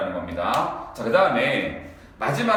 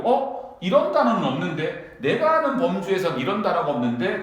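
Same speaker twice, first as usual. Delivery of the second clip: mildly puzzled, higher-pitched questioning; a touch of surprise, lifted pitch; puzzled reader; 4 semitones higher than usual. Acted. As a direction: act out a student stumbling on an unknown word. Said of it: "당황하지 말고".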